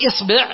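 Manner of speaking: إصبع said isbi', i then i; short i in both syllables of إصبع; i hamza, i ba. Shown as a demonstration. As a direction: demonstrate إصبع as IS-BI'. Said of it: "ثم ثلث الهمزة فتقول".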